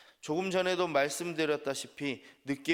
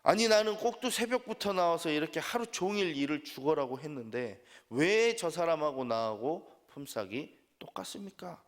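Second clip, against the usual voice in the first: lightly acted aggrieved worker, pitched up at the start; indignant complaint; 3 semitones higher than usual. Early worker confronting the vineyard owner over equal wages, mildly indignant protest. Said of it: "주인에게 가서 따지기 시작합니다".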